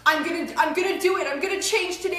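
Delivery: acted anxious scrambling, words tumbling out quickly; scared out of mind. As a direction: rattle it off as if under threat. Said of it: "scared out of your mind".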